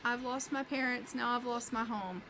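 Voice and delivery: lightly voiced boy mourning his home; sad orphan boy. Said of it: "He's like".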